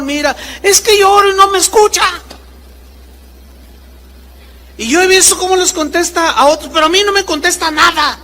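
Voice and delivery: high, fast, whining grumble; mock whining believer; whiny complaint. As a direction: rattle off a self-pitying complaint.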